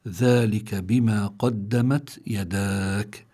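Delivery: slow, drawn-out verse; Quran recitation. Shown as a demonstration. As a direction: recite it slowly, lengthening the last long vowel.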